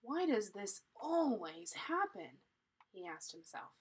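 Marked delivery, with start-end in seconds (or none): 0.0-2.4 slowed line with "always" stretched out; stress on always. Shown as a demonstration. Reader demonstrates the slanted word, stressing "always". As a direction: draw out "always" as the italicized word. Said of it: "say that word, um, a little different".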